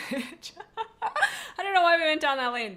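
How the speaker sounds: breaking into loud, high laughter; laughing. Real, not acted. Streamer cracking up at own sandwich tangent, laughing. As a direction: crack up while trying to talk.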